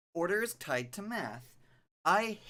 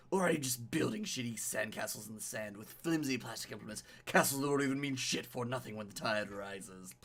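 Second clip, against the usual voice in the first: brooding narration with punched key words; dramatic story narration. A narrator's reading. Streamer reading a loner's inner thoughts aloud, dramatic narration. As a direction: read the inner monologue like a tale.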